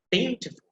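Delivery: first syllable of "beautiful" pitched high, the rest dying away; stress on first syllable. Shown as a demonstration. Teacher showing students word stress, first syllable of "beautiful" stressed. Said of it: "that is the stress syllable".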